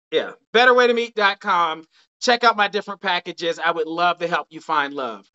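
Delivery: losing voice, a bit hoarse; tired, hoarse end-of-night voice. Real, not acted. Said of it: "I'm losing my voice".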